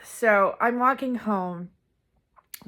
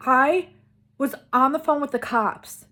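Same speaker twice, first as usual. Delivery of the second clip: higher and louder, a mother still panicked; frantic mom; 5 semitones higher, 6 dB louder than usual. Retold or imitated. Mom telling her daughter she called the cops, frantic and loud. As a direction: rush it out as a frightened parent. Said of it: "she is frantic".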